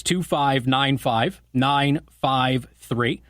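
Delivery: two five nine five, nine five three, slowly, one digit at a time; measured repeat for someone writing it down. Real, not acted. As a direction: spell out the number slowly, pausing between digits. Repeats phone number digit by digit.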